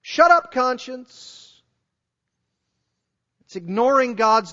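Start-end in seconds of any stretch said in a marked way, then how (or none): 0.0-1.6 loud, high dismissive shout; defiant mankind. Retold or imitated. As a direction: shout it down like a rebel. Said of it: "mankind is saying".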